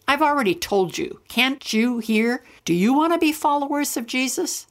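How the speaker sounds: irritated. Acted. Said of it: "I became irritated".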